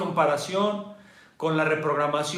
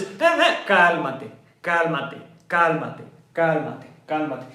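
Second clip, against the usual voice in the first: soothing hush; 2 semitones lower, slower than usual. Pretend. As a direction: settle a panicking child. La ecuanimidad calma a la amígdala. (calma suave que se apaga)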